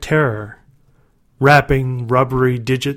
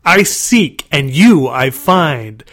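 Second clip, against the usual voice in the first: growling monster; 4 dB louder, slower than usual. A narrator's reading. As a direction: gloat like a monster in a game. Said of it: "growling impersonation".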